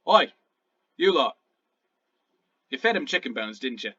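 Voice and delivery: lightly voiced accusing goblin. Goblin jailer confronting prisoners over chicken bones, mildly accusing. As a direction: call them out, then accuse, tailing down. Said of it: "looks at you all and he's like".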